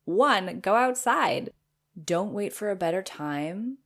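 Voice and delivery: emphatic. Acted. Reading a lesson emphatically.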